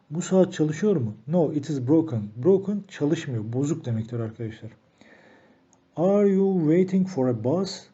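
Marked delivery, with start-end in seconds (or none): 6.0-7.9 slow, higher question read for learners; careful teacher demo; slow model question. Shown as a demonstration. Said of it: "soru sormamız isteniyor".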